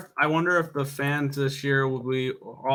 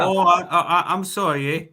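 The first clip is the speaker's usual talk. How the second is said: mock Canadian accent; 2 semitones higher, 3 dB louder than usual. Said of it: "so many accents".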